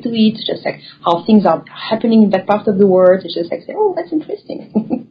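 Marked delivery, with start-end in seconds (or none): 3.8-5.1 surprised. Retold or imitated. Quoted reaction to new people.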